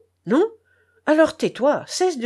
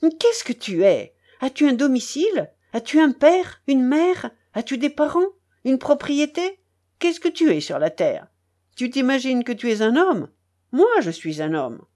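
angry harangue; 3 semitones higher than usual. Acted. Charcot harangues the narrator in the rain, indignant and raised. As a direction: pour out all his pent-up resentment. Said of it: "me demanda-t-il avec colère".

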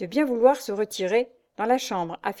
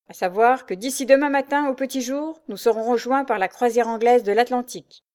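louder heated telling; raised voice; 5 semitones higher, 5 dB louder than usual. A narrator's reading. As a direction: keep the anger up. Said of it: "en haussant encore le ton". (ton haussé, plus fort)

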